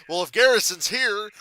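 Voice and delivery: loud, high redneck yell; redneck shout. Retold or imitated. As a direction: bellow it like an angry redneck. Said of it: "guy says".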